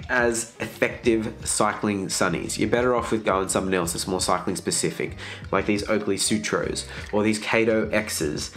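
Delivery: congested, blocked-nose voice; nasal voice. Real, not acted. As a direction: talk through a stuffy nose from a virus. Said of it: "bearing with my nasally voice today".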